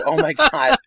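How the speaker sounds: high-pitched thrilled Oh my God; excited gasp. Retold or imitated. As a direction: squeal it out in delight. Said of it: "I was like".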